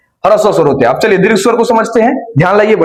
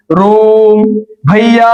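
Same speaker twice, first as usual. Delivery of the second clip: calling out; much slower than usual. Shown as a demonstration. Teacher calls out as if to someone far away. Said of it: "कोई दूर व्यक्ति उसको चिल्ला रहे हैं".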